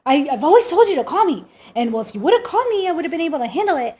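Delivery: fast, mock-exasperated dad rant; imitating dad. Daughter mimicking her dad scolding her, fast and exasperated. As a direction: rattle it off like a fed-up father. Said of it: "dad voiced in story".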